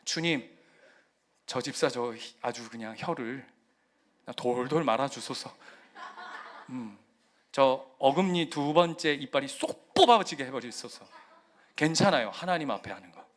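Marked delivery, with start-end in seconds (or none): 0.0-11.1 mock prayer. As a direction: pray a comic curse in an earnest prayer voice. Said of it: "농담처럼 했지만".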